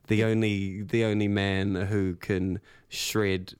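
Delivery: slow, drawn-out radio hype. Acted. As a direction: build him up like a host. Hyping up a band member.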